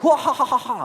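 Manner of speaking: high, loud mock laughter; a girl laughing it off; retold laugh. Girl laughing at the pastor's teasing, mock laugh. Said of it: "tertawa dia".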